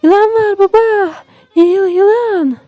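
loud, very high panicked cry; frightened child. Acted. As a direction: stammer out the alarm, high and stretched. Frightened boy reports a snake.

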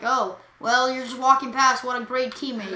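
imitating a sarcastic teammate; mock-reproachful quote; mock sarcasm. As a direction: quote your friend as if sarcastic. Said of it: "I thought you were being like".

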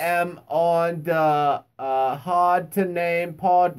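very slow put-on guest voice; imitating Lee. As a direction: drag it out like the guest. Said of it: "that's how he talks".

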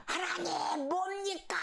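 high, slow anguished cry; crying out to God. Retold or imitated. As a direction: call out to God, stretched and high. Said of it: "막 소리를 질른답니다".

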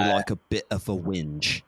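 lightly imitated British friend; a touch of British accent, understated; casual mock-British admission. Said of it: "some of my, my British".

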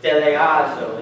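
"Deleazo" modeled as deh-leh-AH-zo; leading repetition. Shown as a demonstration. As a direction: say "Deleazo" clearly for others to repeat. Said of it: "can you guys say that with?".

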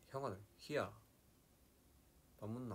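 lightly imitated Gyeongsang speech; Gyeongsang dialect. Imitating a Gyeongsang friend, light Gyeongsang accent. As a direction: borrow a touch of Gyeongsang intonation. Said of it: "경상도 같은 경우는".

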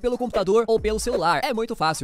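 loud, punchy sponsor read. Acted. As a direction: sell it like a radio ad.

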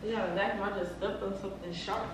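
breathy moaning while talking. Pretend. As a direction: moan through every word. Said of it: "why sound like you fucking talking weird".

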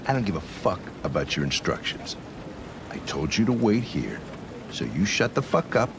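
low, menacing put-down; angry order. Acted. Cop silencing an android that argues back, angry.

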